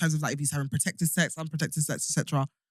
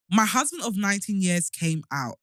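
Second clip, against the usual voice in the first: talking with a retainer. Real, not acted. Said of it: "my sh-, retainers are fucking me up".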